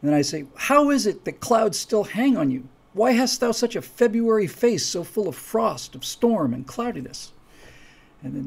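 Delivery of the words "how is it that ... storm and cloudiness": lightly declaimed reproach, starting high and settling down; theatrical Shakespearean taunt. Acted. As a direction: needle your brother in verse, easing off at the end. Acted Shakespeare retort to brother.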